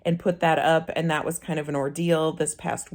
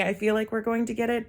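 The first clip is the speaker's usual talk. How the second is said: higher, tentative quote, a touch softer; scared to say it; 5 semitones higher, 3 dB quieter, faster than usual. Retold or imitated. Vlogger retelling their hope about the offer, scared to say it. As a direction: voice it cautiously, pitched up. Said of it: "you're scared to say".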